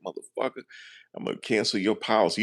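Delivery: imitated angry agent. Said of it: "He did it real quick".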